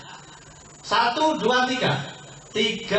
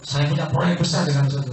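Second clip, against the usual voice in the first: enthusiastic; 6 semitones lower than usual. Shown as a demonstration. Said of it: "Ngomongnya antusias gitu".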